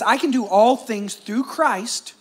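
scripture reading. Shown as a demonstration. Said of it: "Philippians four thirteen says this".

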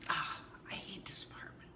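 low-voiced, sighing complaint; exasperated muttered gripe; hateful grumble. Shown as a demonstration. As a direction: groan it out, fed up. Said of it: "does that sound a little bit better".

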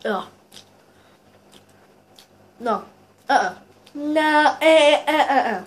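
through a pained frown; disgusted grimace. Real, not acted. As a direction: lips pulled tight. Seen 0: Chewing earlier; food spat out at -1; now grimacing in disgust.

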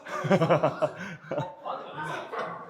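sustained chuckling laugh; real amused laughter. Real, not acted. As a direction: laugh in a long run. Laughs at the gloomy answer.

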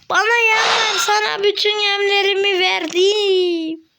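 mock whining. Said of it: "Ağlıyorum bak".

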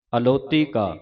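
ਅਲੌਤੀ as one word, a-lau-tee; correct joined reading. Shown as a demonstration. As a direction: read ਅਲੌਤੀ ਕਾ with no break after al. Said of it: "ਇਸ ਤਰ੍ਹਾਂ ਨਹੀਂ ਪੜ੍ਹਨਾ".

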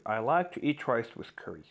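very slow, each word apart; very slow dictation. Shown as a demonstration. Teacher reads an example sentence very slowly. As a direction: spell out the sentence slowly for learners. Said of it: "slow example sentence".

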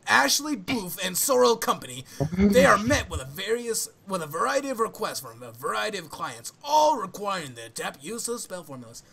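swooping, hammed-up flamboyant reading. Finishing the series summary for friends, mock flamboyant. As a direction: read the blurb with theatrical flourish. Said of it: "flamboyant voice".

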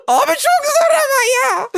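high, loud laughing wail; laugh-crying. Real, not acted. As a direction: wail in frustration through laughter. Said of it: "Şu an ağlayabilirim". (gülerek, yüksek sesle ağlamaklı feryat)

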